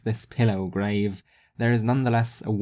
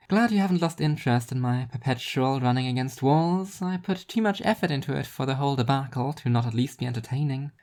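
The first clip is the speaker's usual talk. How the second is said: higher, dry self-mocking voice; wry and higher; 4 semitones higher than usual. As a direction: shrug off the hate with dry humour. She replies.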